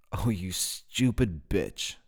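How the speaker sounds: slow, monotone insult; toneless. A narrator's reading. Tyler insults Jane, slow and toneless. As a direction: say it dead level, no inflection. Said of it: "his tone bereft of inflection".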